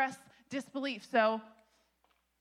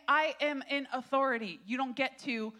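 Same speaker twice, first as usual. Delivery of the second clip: authoritative angel; 2 semitones higher, 5 dB louder than usual. Acted. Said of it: "he's basically saying".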